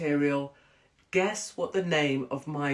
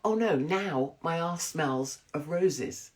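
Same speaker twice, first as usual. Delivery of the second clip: mock dismay; slower than usual. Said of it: "So then I'm like".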